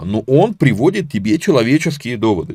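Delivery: ordinary talk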